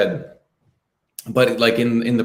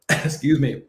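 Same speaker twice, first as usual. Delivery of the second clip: talking past a catch in the throat; choked up; slower than usual. Real, not acted. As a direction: clear your throat and try to carry on. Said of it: "you're choked up about it".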